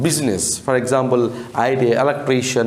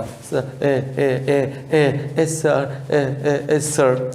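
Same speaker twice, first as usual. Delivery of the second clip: put-on teacher demonstrating the boy's stammer. Shown as a demonstration. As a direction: stutter your way to yes sir. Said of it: "Stammering means what? Slowly".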